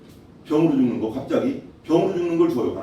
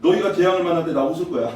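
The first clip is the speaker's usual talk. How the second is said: laughing mockery. God laughing at those meeting disaster, mocking laugh. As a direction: taunt with a laugh, then a mocking chuckle. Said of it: "그대로 말하는 거예요".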